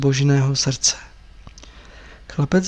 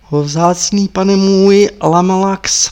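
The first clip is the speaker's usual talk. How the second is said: lamenting; 3 semitones higher, slower than usual. Acted. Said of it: "pravila s nářkem paní".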